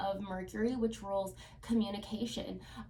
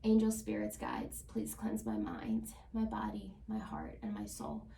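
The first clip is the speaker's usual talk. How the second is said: prayerful invocation. Acted. Tarot reader blessing the cards for Virgo viewers, hushed prayerful invocation. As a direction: call on spirits gently, as if at an altar. Cleansing prayer before shuffling.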